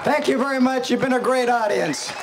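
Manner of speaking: stage announcer. Real, not acted. Performer thanks crowd on stage.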